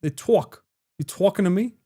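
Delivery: lightly imitated Chicago accent. Shown as a demonstration. Streamer trying out the accent, Chicago. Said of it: "sounds like Chicago talk like this".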